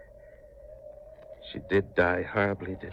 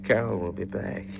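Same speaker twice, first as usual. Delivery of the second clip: louder and higher, cutting in; fervent loud interruption; insistent outburst; 4 semitones higher, 4 dB louder than usual. Acted. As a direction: snap back, insisting she'll return. Grieving man cuts in insistently.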